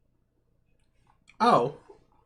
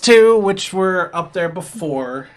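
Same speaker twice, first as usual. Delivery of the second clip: louder, clear read of the board; a touch of announcing; 6 semitones higher, 9 dB louder than usual. Acted. Game master lays out quests, announcing. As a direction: present the quests to the party.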